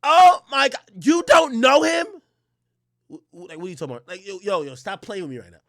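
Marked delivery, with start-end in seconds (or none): 0.0-2.0 mock girlfriend. Mimicking her disbelief.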